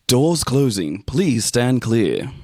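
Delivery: slow, formal train platform announcement. Shown as a demonstration. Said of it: "You ready?".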